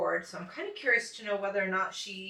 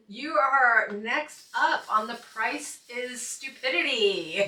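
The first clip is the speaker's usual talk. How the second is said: game show announcer; 2 semitones higher, 4 dB louder, slower than usual. Pretend. Parodies game show announcer's call.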